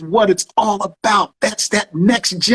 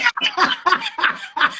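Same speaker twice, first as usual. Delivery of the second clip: delighted high laugh; 6 dB quieter than usual. Real, not acted. Host delighted by the song.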